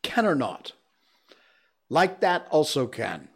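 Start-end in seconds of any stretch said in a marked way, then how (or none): 1.9-3.3 Malaysian English phrase. Shown as a demonstration. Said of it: "This is more of a tough one".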